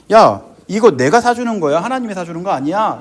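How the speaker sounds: lightly acted scolding boss, loud opening; retold mockery. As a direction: needle a praying employee. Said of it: "라고 조롱하더라고요". (부장님의 조롱하는 말투 흉내)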